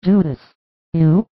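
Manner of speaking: a sudden shocked question. Acted. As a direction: caught off guard by his state. Mary shocked at drunk Judas.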